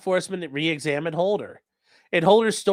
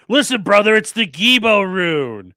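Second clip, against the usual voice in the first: louder, slow mock tough guy; mock brother voice; 6 dB louder than usual. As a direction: lean on it like a stubborn bro. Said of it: "He'll be like".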